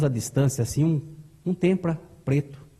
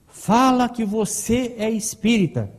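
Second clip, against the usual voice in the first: slow, forceful inner urging; strong, insistent prompting; 4 semitones higher, slower than usual. Retold or imitated. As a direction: press it firmly, word by word. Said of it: "insistia. Aquilo era muito forte".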